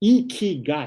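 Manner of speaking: smile stretched through the word, broad smiling delivery. Coaching a group on how to pronounce a word, showing them the stretched smile and saying it that way, said with a smile. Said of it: "You say it like smiling".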